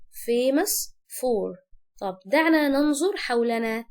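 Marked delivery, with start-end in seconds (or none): 0.1-1.7 very slow. Shown as a demonstration.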